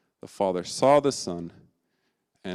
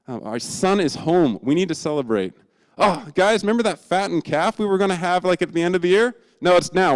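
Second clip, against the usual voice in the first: much higher and louder, calling out orders; joyful yell; 9 semitones higher, 7 dB louder than usual. Acted. Father yelling orders to the staff, joyful. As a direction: shout with overflowing joy. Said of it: "he yells to his staff".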